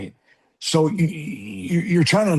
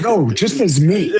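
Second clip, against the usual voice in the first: laughing; 6 semitones higher, 6 dB louder, slower than usual. Real, not acted.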